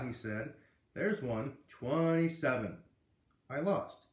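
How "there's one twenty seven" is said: announcing. Acted. Teacher finds the answer.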